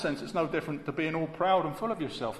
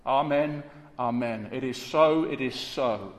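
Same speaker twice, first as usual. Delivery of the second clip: each amen pressed hard and firm; emphatic repetition. Shown as a demonstration. Preacher stressing Jesus' words to congregation, emphatic. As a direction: land both amens with weight. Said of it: "it's repeated for emphasis".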